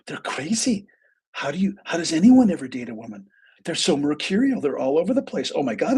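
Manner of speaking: high-pitched retold rant; going off. Client ranting to her counsellor about dating women, going off. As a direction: imitate a client venting in exasperation. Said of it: "she goes off on women".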